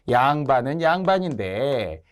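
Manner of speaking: slow, drawn-out jeer; lightly acted taunt; mild mockery. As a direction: poke fun at the nobles, taking your time. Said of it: "이런 식으로 약간 조롱을 한 거예요".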